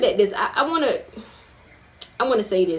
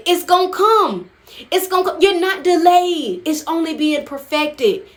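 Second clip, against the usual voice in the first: preaching emphasis; 6 semitones higher than usual. Real, not acted. Preacher assuring the congregation.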